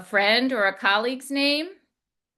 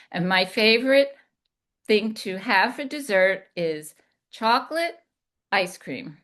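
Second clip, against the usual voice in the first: chocolate ice cream ending with a firm fall; falling inflection. Shown as a demonstration. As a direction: ice cream settled down at the end. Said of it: "Do you hear the difference?".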